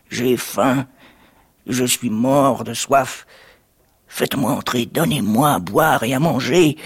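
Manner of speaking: lightly put-on pleading beggar; beggar's voice. Jack in disguise begs for food and drink, lightly imitated beggar voice. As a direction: beg with a hint of a put-on voice. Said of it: "en imitant la voix d'un mendiant".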